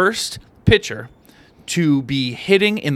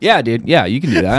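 low, laid-back genie voice; easygoing low genie, no big deal; genie impression; 5 semitones lower than usual. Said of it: "this is my genie impression".

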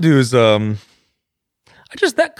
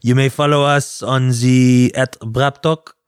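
badly faked French accent; halting mock French accent; slower than usual. Giving listeners the show's handle, fake French accent. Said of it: "I don't do a French accent".

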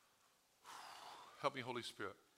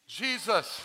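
restrained higher call; yelling, held back; 6 semitones higher, 7 dB louder than usual. Acted. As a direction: call out loud, short of full force. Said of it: "I was yelling".

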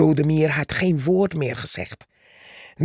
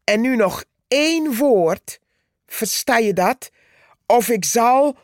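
angry threat; 5 semitones higher than usual. Acted. Ant threatens Purperhart.

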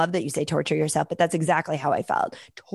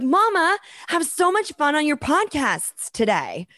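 lightly voiced little boy, higher; imitating her son's sweet send-off; child's voice; 7 semitones higher than usual. Mother imitating her son wishing her luck, higher child voice.

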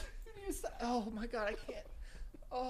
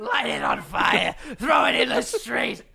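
shouting; 4 semitones higher, slower than usual. Pretend. Mock wrestling hype yelling.

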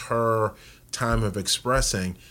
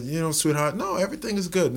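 sweet reassurance; 7 semitones higher, faster than usual. Retold or imitated. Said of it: "I said".

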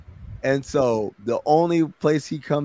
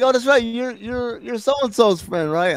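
mock woman's voice; 10 semitones higher than usual. Woman placing a stranger.

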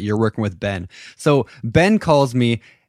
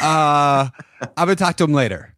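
sheepish Ben; 4 semitones higher than usual. Retold or imitated. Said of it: "retold hesitant reply".

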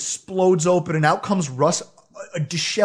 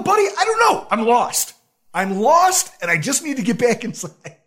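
much higher and louder, panicky and breathless; frantic plea; 5 semitones higher, 4 dB louder than usual. Retold or imitated. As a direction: blurt it out like a lost, desperate newbie. Frantic reply to security guard.

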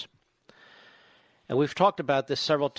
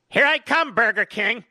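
gleeful mock cheer; 9 semitones higher, 7 dB louder than usual. Joking about skipping his diet.

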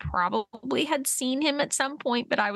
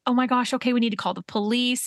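retold frantic cry, slightly raised; mock panicked yell; 3 semitones higher than usual. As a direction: imitate yourself panicking, mildly.

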